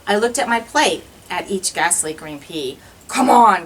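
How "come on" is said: growly monster. Acted. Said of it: "growled the monster".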